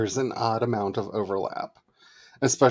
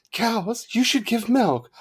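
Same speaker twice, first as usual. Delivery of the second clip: higher, mock-stern saint voice; Bridget scolding cows; 12 semitones higher, slower than usual. Saint Bridget tells the cows to give milk, high mock-stern.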